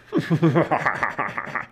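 villainous pirate cackle; mean, ugly laugh. A narrator's reading. Pirate holding Jack captive, mean laugh. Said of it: "laughed a mean, ugly laugh".

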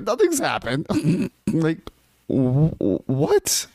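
high grinning denial; trying not to smile. Retold or imitated. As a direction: say it through a barely hidden grin. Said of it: "He could not stop smiling".

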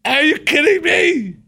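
high, loud disbelieving cry; incredulous outburst. Retold or imitated. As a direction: blurt it out in shock at the guard. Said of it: "and I'm like".

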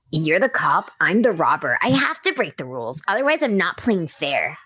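put-on playful little boy voice; bratty kid at play. Shown as a demonstration. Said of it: "what little Tommy sounds like?".

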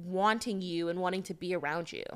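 put-on soft, affected pretty-girl persona. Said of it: "You're gonna do this voice the whole episode".

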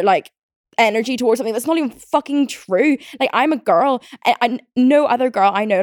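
exasperated, emphatic comeback; indignant retort. Retold or imitated. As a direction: retell an argument with mild outrage. Acts out arguing back at boy.

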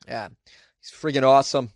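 punchy put-on Boston accent. Podcaster voicing an imagined listener review, Boston accent. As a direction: land it in mock Boston accent. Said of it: "read it in a Boston accent".

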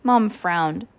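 plain reading voice

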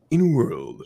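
lightly done trailer announcer; understated "in a world" narrator; movie-trailer voice. Shown as a demonstration. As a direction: give a hint of trailer voiceover. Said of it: "in a world type".

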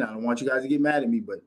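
quick, lightly voiced boss explaining; a hint of Dana White, fast-talking; imitating Dana White. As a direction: rattle it off like the promoter. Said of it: "this is Dana White speaking".

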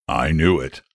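mild groan of resignation. A narrator's reading. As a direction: groan it low, as a put-upon storyteller. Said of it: "he groaned".

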